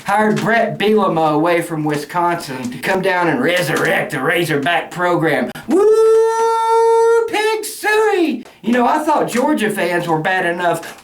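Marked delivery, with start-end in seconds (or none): 5.7-8.4 mock hog call. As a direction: whoop it up like a hog-calling fan. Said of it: "who the hell goes, "Woo! Pig Sooie".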